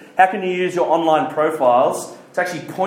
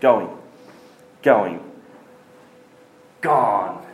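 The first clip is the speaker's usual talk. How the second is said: mock auctioneer countdown; 8 semitones lower, much slower than usual. Mock auction countdown for more questions.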